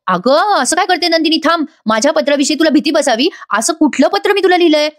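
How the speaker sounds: high-pitched, acted bewilderment; baffled protest. Husband asking which letter frightened his wife, bewildered.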